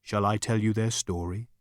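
understated ethereal voice; a hint of hushed, even offering; quiet inquiry. A narrator's reading. Voice offering Zaphod a story, quietly.

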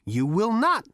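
high, brash, sneering drawl; cocky Zaphod voice. A narrator's reading. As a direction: taunt the robot, full of swagger.

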